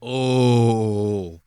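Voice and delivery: long, loud "ooh" of reaction; drawn-out "oh". Real, not acted. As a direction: let one long "oh" ring out. Host reacting to the clip's argument.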